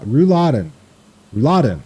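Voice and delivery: rouladen as one joined word; no spaces. Shown as a demonstration. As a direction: practise saying rouladen without gaps. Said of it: "no spaces".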